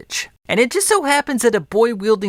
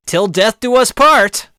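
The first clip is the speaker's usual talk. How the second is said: loud, slow, higher-pitched cry; mock dramatic shout; 5 semitones higher, 7 dB louder, slower than usual. Stabbed groom to his bride on the wedding night, dramatic shout. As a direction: belt it out slowly, stretching the last word.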